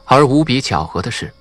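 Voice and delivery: usual speaking voice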